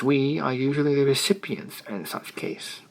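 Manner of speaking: recipients leaned on with a bland smile; stress on recipients. Acted. Editor stresses recipients to the young poet, with a bland smile. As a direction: lean gently on recipients, smiling. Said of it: "as he emphasized the word recipients".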